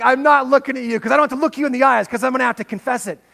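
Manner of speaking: high, fast, loud voicing of the dog's thoughts; voicing the guilty dog. Pastor voicing his dog avoiding his eyes, fast sheepish. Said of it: "And it's like".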